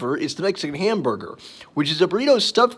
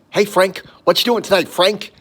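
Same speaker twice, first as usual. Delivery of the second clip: a hint of the cocky commercial lizard; Louie's voice; 3 semitones higher, 3 dB louder than usual. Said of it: "Louie kinda talked like this".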